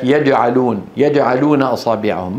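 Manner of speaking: يجعلون with a d tinge on j; jim mixed with dal. Retold or imitated. Teacher quotes the faulty reading, jim mixed with dal. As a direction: push the j of يجعلون toward the tongue tip. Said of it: "خلط صوتها بالدال".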